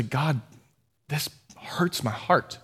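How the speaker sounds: soft, breathless whisper to God; whispered prayer. Pretend. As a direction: breathe it out as a private ache. Voicing a heartfelt inner prayer.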